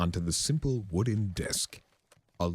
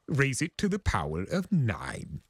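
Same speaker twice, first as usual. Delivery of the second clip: smug; 8 semitones higher than usual. A narrator's reading. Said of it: "Discord said smugly".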